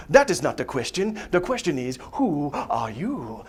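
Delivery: mild Rafiki riddle voice; weird wise baboon. Retold or imitated. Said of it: "Asking Simba all weird".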